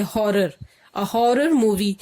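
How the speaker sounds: HORROR with the initial H clearly sounded. Shown as a demonstration. Teacher showing learners the consonant sound, sounded H in HORROR. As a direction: say "हॉरर" and "horror" with an audible H. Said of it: "आवाज भी एच की ही आ रही है".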